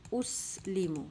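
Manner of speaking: اس لیمو as "us-lee-mu"; long ee in لیمو, falling at the end; "oo-ee" sounds. Shown as a demonstration. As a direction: split اس from لیمو. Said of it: "او ای sound ہمارے پاس آئی ہے".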